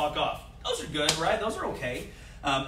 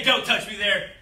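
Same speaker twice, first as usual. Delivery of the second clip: a touch louder, firm warning; 4 semitones higher, 4 dB louder than usual. Shown as a demonstration. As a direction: say it firmly to push them away. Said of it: "be loud and verbal with it".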